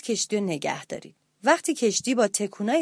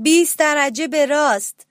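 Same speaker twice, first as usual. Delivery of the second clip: higher, louder steering command; captain's called order; 4 semitones higher, 5 dB louder than usual. Acted. Parrot captain to the crew, calling a steering order.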